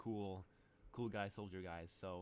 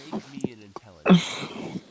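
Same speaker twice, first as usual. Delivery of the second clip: whisper; 4 semitones higher, 22 dB louder than usual. Acted. GM asks roll, whispered.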